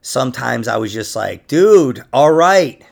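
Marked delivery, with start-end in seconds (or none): 1.5-2.8 mock exasperated. Retold exasperation at girlfriend.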